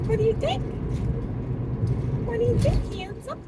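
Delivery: high, singsong questioning; coaxing pet talk. Real, not acted. Owner asks handsome bird for a reply, high coaxing pet talk. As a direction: coax a pet to answer in a high voice.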